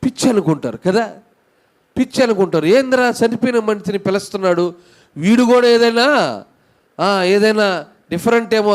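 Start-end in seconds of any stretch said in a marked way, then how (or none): 2.7-8.7 mock disbelief. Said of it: "అనుకొని పిచ్చి వాళ్ళు అనుకుంటారు".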